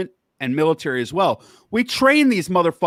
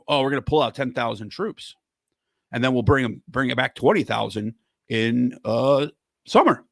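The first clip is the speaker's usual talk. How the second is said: bad Obama impression; 5 semitones lower than usual. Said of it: "I'm not the good Obama impersonator".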